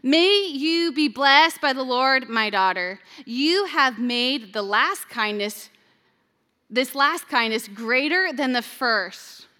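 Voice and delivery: solemn blessing. Shown as a demonstration. Boaz solemnly blessing Ruth, slow and full-voiced. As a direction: lift the words like a benediction. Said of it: "This is Boaz, what he is saying to Ruth".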